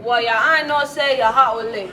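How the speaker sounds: loud, botched Jamaican accent; attempted Jamaican, English-sounding. Shown as a demonstration. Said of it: "saying it in an English accent".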